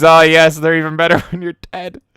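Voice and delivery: loud high mock critic, laughing through; imitating the critic. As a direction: ham it up, giggling. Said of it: "now you're just swapping critic".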